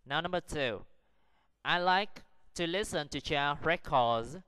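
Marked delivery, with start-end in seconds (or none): 1.6-4.4 slow, careful reading in separate chunks; measured dictation pace for learners; slow model sentence. Shown as a demonstration. Teacher models sentence two for practice, slow and careful. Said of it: "Practice the sentences".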